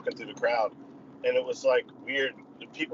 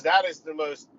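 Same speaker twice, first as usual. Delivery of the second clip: excited stranger; 5 semitones higher, 5 dB louder, slower than usual. Retold or imitated. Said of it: "And she goes".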